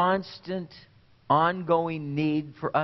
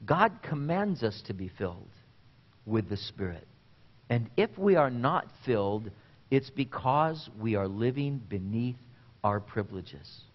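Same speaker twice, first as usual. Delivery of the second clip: softer, with weighty pauses between phrases; deliberate repeat; 4 semitones lower, 3 dB quieter than usual. Real, not acted. Preacher repeats a quotation for the congregation, quietly deliberate. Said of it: "Let me repeat that to you".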